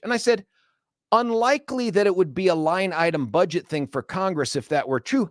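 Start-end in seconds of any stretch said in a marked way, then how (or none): 1.1-5.3 pitched-up, pointed rebuttal; retold argument laying on the big words; elevated, wordy indignation. Customer rebutting clerk about postage, wordy indignation. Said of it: "all the big words".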